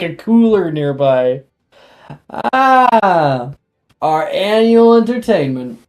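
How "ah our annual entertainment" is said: higher, chuckling toast. Acted. Lazy professor toasting the spectacle, chuckling. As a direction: laugh through the words while raising a beer. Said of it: "Professor Dildero chuckles".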